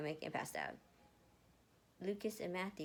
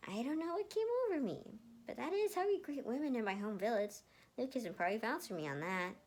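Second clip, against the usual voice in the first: nervous explanation; 4 semitones higher than usual. Acted. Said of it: "Matthew laughed nervously".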